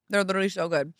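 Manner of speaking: chewing while talking; talking through a bite; mouth full. Real, not acted. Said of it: "You're chewing".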